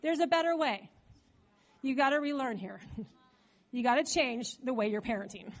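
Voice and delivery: low, gentle correction; voiced Holy Spirit. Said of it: "the Holy Spirit spoke to my heart".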